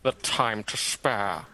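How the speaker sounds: lightly voiced smug villain, slow and drawn out; a hint of a courteous menacing orator addressing a crowd; slow villain speech. GM voices menacing speaker over stone.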